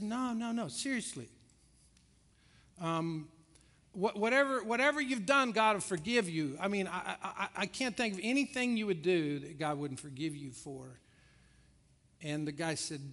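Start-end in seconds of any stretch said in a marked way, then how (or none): 0.0-11.0 earnest pleading. Acted. Terry urgently reassuring the prisoner.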